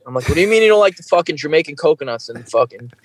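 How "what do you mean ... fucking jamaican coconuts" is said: fast, higher incredulous outburst; mock disbelief. Filmmaker retells arguing with band, fast incredulous. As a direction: fire it off in disbelief.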